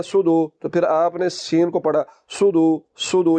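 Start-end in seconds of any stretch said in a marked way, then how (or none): 0.0-0.5 plain s, like su-du, in "सूदू"; thin seen. Shown as a demonstration. Teacher showing the mistake, thin light s. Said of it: "मोटा ना किया". 2.3-3.4 plain s, like su-du, in "सूदू"; thin seen. Shown as a demonstration. Teacher showing the mistake, thin light s. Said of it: "ये देखिए, बारीक है".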